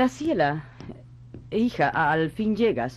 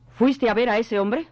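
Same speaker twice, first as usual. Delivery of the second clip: firm, controlled demand for an answer; stern questioning; 2 semitones higher than usual. Acted. Mother questions her evasive daughter, stern but controlled.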